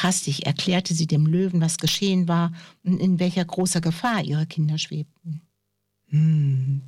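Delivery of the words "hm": drowsy storybook "hm"; lightly growled, drawn-out hum; low lion's hum. A narrator's reading. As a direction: rumble a short hum like a sleepy lion. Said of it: "brummte der Löwe".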